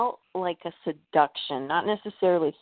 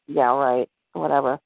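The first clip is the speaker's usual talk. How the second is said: lower-pitched, sceptical brush-off; dismissive disbelief; 3 semitones lower than usual. Retold or imitated. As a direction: imitate a sister who isn't buying it, pitched down. Sister disbelieves monster story, retold.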